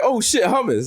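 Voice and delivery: mildly hammed-up discovery; mock surprise. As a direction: pretend to be pleasantly startled. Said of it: "open my fridge and be surprised".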